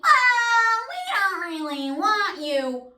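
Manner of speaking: high, slow fake-polite company voice; mocking rejection. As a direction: simper it like a snooty recruiter. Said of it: "y'all tell me".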